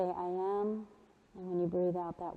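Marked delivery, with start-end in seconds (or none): 0.0-0.9 soft affirmation. Shown as a demonstration. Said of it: "maybe say".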